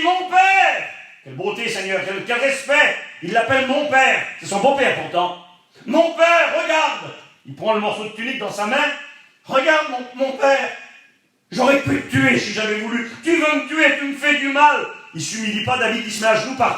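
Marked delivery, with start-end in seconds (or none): 0.0-0.9 high, loud call to a father; David calls loudly after the departing king; crying out. Retold or imitated. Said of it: "David sort et il crie". 5.8-14.8 calling out to plead his case. Retold or imitated. David calls after departing Saul.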